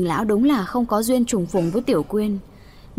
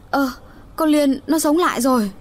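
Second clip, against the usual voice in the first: startled joy; 6 semitones higher than usual. Acted. Aunt seeing the girl wake, astonished and glad. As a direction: gasp in glad surprise. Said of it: "vừa mừng vừa sợ".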